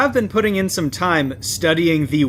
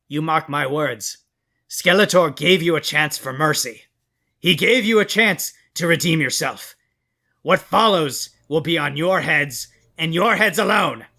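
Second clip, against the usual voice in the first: ominous threat. Acted. Skeletor's grave parting threat.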